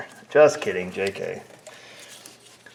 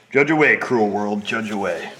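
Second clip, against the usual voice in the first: mock dramatic lament; 9 dB louder than usual. Mock lament at judgy viewers.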